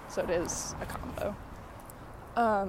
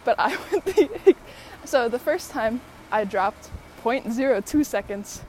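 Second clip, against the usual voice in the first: excited; 2 semitones higher, 5 dB louder than usual. Real, not acted. Excited recounting time drops.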